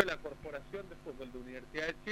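faint, distant phone line; phone held away. Real, not acted. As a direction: far from the phone mic. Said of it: "su señal sale muy débil".

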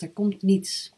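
breathy voiceless whisper. Retold or imitated. Quoting participant's answer.

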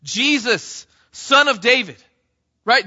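loud, high desperate cry; preacher voicing a beggar's loud plea; shouting over crowds. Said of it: "shouting over the crowds".

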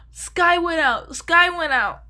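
high, slow alarmed mom voice; mom's panicked call. Retold or imitated. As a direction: imitate mom gasping the news. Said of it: "I just hear her say".

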